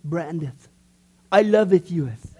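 slow, hammed-up old English lover; mock King James speech. Pastor mock-addressing his wife in archaic English, slow and hammed-up. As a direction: drawl it like a mock Shakespeare suitor. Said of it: "I immediately started with this".

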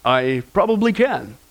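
low, slow, unbothered heavenly voice; reply coolly and deep, like a game show host; calm voice. Retold or imitated. Voice from above answers the panicking tourist, calm and low. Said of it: "the calm voice replied".

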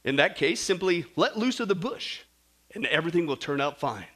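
low, composed heavenly voice; calm voice. Acted. Voice from above tells tourist to let go, calm. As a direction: advise with untroubled ease. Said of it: "so the calm voice said".

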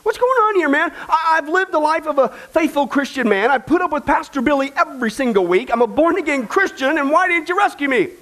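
high, whiny confused protest. Retold or imitated. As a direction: play a baffled man demanding answers at the gate. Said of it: "Kenny's all confused".

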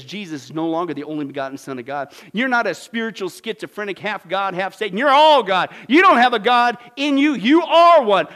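from level to loud mock proclamation; mock preacher building. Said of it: "he says".

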